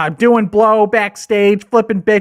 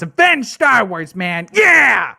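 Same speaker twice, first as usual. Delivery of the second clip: hype shout; slower than usual. Acted.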